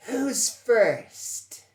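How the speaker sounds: high, loud challenge to the room; loud call-out. Acted. Player calls out to shackled prisoners, loud challenge.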